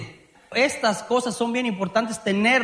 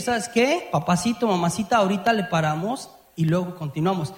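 calm pause request; 4 semitones lower than usual. Acted. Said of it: "Y saber y decir".

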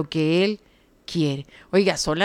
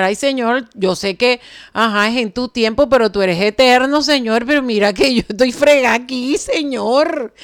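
bold familiar prayer; 3 semitones higher than usual. Retold or imitated. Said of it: "me he atrevido a decirle así".

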